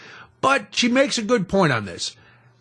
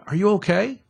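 friendly tone; 3 semitones higher than usual. Shown as a demonstration. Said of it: "Just use a friendly tone".

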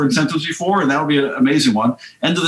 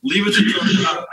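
slow, breathy whisper, pitched up; knowing whisper; 5 semitones higher than usual. Real, not acted. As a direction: hush it like a knowing aside. Host's wry aside on Joe.

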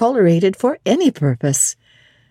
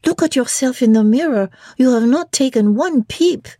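higher, coaxing maid's voice; French maid; 7 semitones higher than usual. Acted. Sophie urging the bride to see the mirror, higher. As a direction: urge her to look, pitched up. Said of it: "she cried in French".

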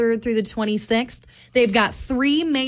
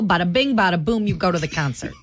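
mock Italian accent; 3 semitones lower, faster than usual. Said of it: "we doing Italian accents".

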